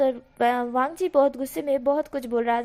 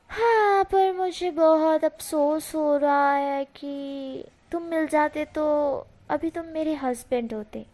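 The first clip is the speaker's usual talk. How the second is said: mock regretful flirt; 2 semitones higher, slower than usual. Venchao regretting, flirting with Wing.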